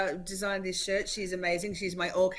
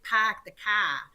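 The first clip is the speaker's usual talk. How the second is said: Boston accent; slower than usual. Shown as a demonstration. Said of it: "I have to say".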